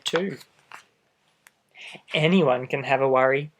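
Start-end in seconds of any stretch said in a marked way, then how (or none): 2.1-3.5 lively storybook read-aloud; reading to children. A narrator's reading. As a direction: read it out to little listeners. Reads picture book aloud.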